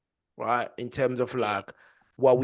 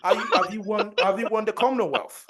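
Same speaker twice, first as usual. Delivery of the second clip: mock arrogant; 6 semitones higher, 4 dB louder than usual. Mock arrogant interrogation of kid.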